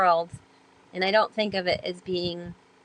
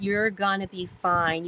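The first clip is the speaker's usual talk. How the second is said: reassuring mentor; slower than usual. Retold or imitated. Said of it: "he goes".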